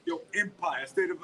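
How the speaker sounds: lightly put-on Black American accent; imitating kids putting on a Black American accent; mock rap in a borrowed Black American accent. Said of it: "put on their thickest black voice".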